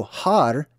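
Har with an audible breathy H at the front. Shown as a demonstration. Teacher shows viewers the Hebrew word, breathy H in Har. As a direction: say Har, sounding the H. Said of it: "so much of a breathy ha sound".

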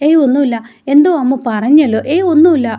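a mother hastily denying to her son; flustered denial. Acted. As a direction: wave the question away nervously. Vasundhara dodging Gautham's question.

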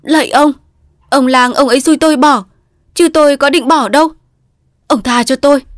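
high, loud frantic begging; desperate pleading. A narrator's reading. Delirious husband begging an imagined man to spare him, frantic. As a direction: beg for mercy as if blows are raining down. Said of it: "van lơn".

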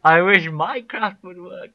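loud, high, drawn-out complaint; exasperated wishing. Real, not acted. Streamer complains to a stuck game, exasperated wish. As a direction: wail it slowly at the game.

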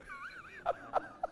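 high, pulsing sobs; acted-out weeping; mock sobbing. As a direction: sob in short high bursts, imitated. Acts the woman's sobbing.

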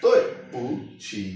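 तोय falling, पू light, छी dipping; तोय पू छी joined, each syllable keeping its tone; tones together. Shown as a demonstration. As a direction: say तोय पू छी as one word with all three tones. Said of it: "इकट्ठे को pronounce करेंगे".

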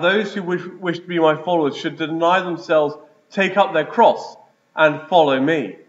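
ordinary talk

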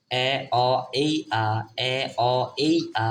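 chant-like repetition of এ, অ, এই, আ, each sound separate; vowel sound drill. Shown as a demonstration. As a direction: drill এ, অ, এই, আ evenly, twice through. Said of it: "এ এর উচ্চারণ চার রকম".

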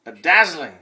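theatrical presenter, punched adjective; show announcer. Pretend. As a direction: present it grandly. Performing show intro.

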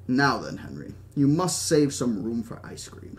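lightly voiced old British host; a hint of a genial British gentleman; Hammond. Host urging his guest at dinner, lightly voiced British old man.

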